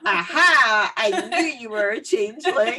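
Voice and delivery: loud "Aha", then a laughing gotcha; mock triumph, catching the fairy out; triumphant mum. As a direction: mum unmasks the changeling, gleeful. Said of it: "And then the mum goes".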